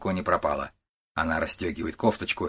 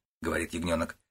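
ordinary delivery

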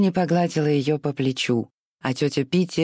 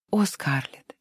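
hushed, breathy soothing whisper; whispered plea; slower than usual. Acted. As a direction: whisper her name gently. Melanie soothes weeping Scarlett.

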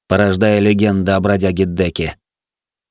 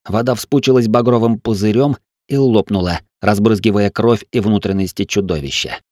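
plain reading voice

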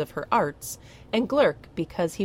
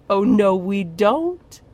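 slow, louder, lilting sing-song; high sing-song; 4 semitones higher, 8 dB louder, slower than usual. Acted. Witch teasing the troll over the baby, high sing-song. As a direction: coo it teasingly, slow and singsong. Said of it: "her voice went high in sing-song".

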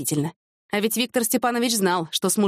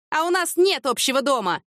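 higher-pitched, restrained exclamation; mild cry; 7 semitones higher than usual. A narrator's reading. Divorced couple answering the widow, mildly crying out. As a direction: call it out indignantly without real volume. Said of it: "хором крикнули Люба и её бывший муж".

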